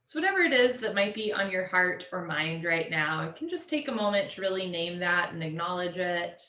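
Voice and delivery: measured, settling voice with long pauses; guided meditation. Real, not acted. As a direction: gently guide them to let go, easing down at the end.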